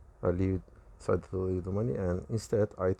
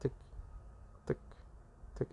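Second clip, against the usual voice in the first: short, spaced clock ticks; tick, pause, tick; imitated clock ticking; 13 dB quieter, much faster than usual. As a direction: tick like a second hand, evenly paced. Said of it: "making the usual clock hand sound".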